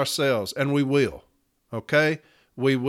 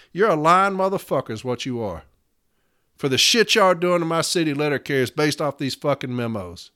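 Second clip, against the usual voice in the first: pretend angry call. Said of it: "call him up and say".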